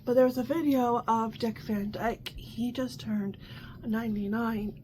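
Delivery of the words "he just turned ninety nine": a quiet conspiratorial aside; hushed aside. Real, not acted. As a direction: let it slip out in a hush. Lowered aside about Dick Van Dyke.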